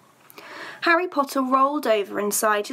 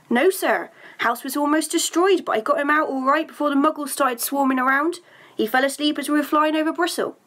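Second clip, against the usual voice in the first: Hagrid voice; 4 semitones higher than usual. Acted. Hagrid reports to Dumbledore.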